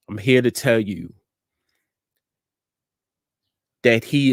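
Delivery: measured encouragement with long, weighty pauses; deliberate inspirational address, letting each phrase land; motivational preaching. Real, not acted. Delivers an inspirational message.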